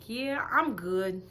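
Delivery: slow, drawn-out I'm good; dismissive brush-off. Retold or imitated. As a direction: let him down coolly, dragging it. Dismissing his non-apology.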